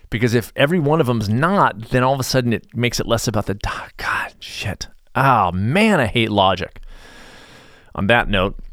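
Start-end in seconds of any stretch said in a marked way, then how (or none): 3.5-4.9 muttered curse. Real, not acted. Frustrated aside mid-sentence.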